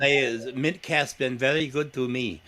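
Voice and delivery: a light, hammed-up Mexican accent, barely shifted; playful mock Mexican accent, only faintly there; bad Mexican accent. Joking on a podcast that Mintcast treated him well, in a slight mock Mexican accent. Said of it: "that was my bad Mexican accent".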